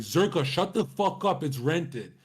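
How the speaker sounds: hammed-up irritated reply; imitating angry friend. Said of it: "And he got so angry".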